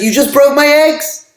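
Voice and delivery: high-pitched retold outburst, well above the teller's own voice; upset protest. Retold egg seller protests to the prince, a high upset outcry. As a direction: play the egg seller crying out in alarm. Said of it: "the egg seller gets very upset".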